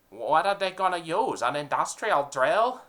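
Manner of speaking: eager dim henchman; mafia henchman. Acted.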